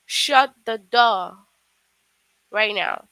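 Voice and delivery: slow, loud stern order; stern command. Shown as a demonstration. Teacher demos an angry parent's order, loud and slow. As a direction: bark it out like a cross parent. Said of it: "showing a strong feeling".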